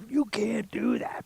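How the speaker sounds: high, slow mock-official voice; stern official. Retelling the officials who refused him, slow mock-stern voice. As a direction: lay down the rule in a put-on voice. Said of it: "they were like".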